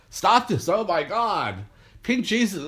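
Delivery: hammed-up outrage; mock shock. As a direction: imitate a scandalized official. Imitating shocked organizers.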